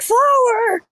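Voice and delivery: high, incredulous mock cry; mimicking someone's high-pitched indignation; outraged outburst. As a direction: throw the word back, scandalized. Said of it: "I heard you go off".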